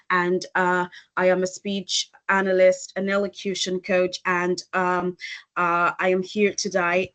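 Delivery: level, monotone intro padded with uhs and ums; hesitant filler-laden intro. Shown as a demonstration. Speech coach showing the audience how fillers put people off, hesitant and monotone. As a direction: stall on fillers between phrases. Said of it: "Now, here is an example".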